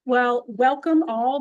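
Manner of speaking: loud, slow welcome to the room; outside voice. Real, not acted. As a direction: project it to the back row. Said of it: "I'm using my outside voice".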